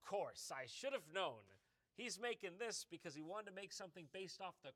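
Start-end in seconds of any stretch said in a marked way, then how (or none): 0.1-1.4 sarcastic. Real, not acted. Mocking sarcastic aside.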